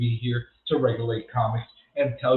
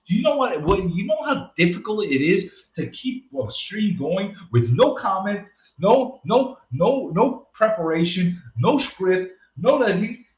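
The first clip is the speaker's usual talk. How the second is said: heated rant; 5 semitones higher than usual. Real, not acted. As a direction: vent about how hard it is. Ranting about streaming without pauses.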